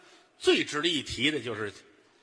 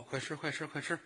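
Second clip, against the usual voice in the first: put-on coaxing a baby; 8 dB quieter than usual. Voices mother urging baby to feed.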